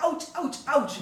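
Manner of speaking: mock ouches, lightly done; pained collection. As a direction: voice code being poked, in quick mock pain. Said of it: "hear the collection double say".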